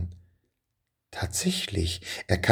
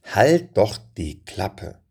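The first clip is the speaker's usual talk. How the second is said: annoyed church shush; much slower than usual. Retold or imitated. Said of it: "Oft genug hieß es dann".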